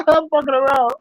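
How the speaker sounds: laughing while admitting the joke. Real, not acted. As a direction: say it through a chuckle. Laughing at own crude joke.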